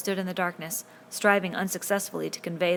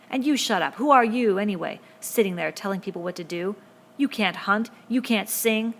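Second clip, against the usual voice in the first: louder, higher jeering attack; angry retort; 3 semitones higher, 7 dB louder than usual. A narrator's reading. Jack turns on Ralph, loud mocking anger. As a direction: spit the insults out.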